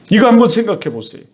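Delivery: said again quickly, pressing the point; fast urging repeat. Shown as a demonstration. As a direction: rush the repeat to drive it home.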